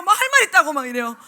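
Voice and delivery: ordinary talk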